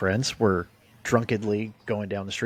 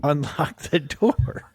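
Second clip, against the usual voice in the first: retold begging; 2 semitones higher than usual. Customer begs staff to unlock the bathroom, retold pleading. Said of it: "I'm begging you".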